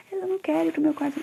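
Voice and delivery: put-on very high, whiny kid's demand; mother voicing the son who wants to yell; insistent child. Child refusing in acted dialogue.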